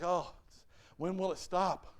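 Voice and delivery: dismayed, fretful sigh of a question, put on; mock discouragement. Preacher voicing the discouraged and worried, mock despair. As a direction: play at being worn down. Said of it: "How many just get discouraged?".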